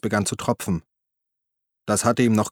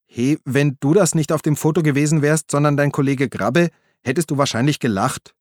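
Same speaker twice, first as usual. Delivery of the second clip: Uli's voice, higher and a little louder; Uli, pleading; 5 semitones higher, 3 dB louder than usual. Acted. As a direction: call after him, placating. Uli argues with Walde. (Uli ruft beschwichtigend hinterher, höhere Stimme)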